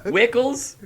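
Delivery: loud, high questioning exclamation; hammed-up astonished discovery; mock impressed. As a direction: pop it out as an amazed question. Acted discovery in ex's fridge.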